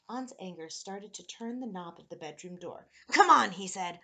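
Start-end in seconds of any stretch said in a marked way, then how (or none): 3.1-3.5 loud, high-pitched urging; urging creature. A narrator's reading. Creature tempts boy out the door, urging. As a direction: egg the child on forcefully.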